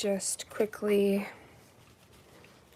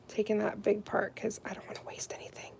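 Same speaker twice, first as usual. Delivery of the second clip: hushed careful whisper; 9 dB quieter than usual. Real, not acted. Fussing over a fragile nail tab, whispering. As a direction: breathe the words so nothing gets disturbed.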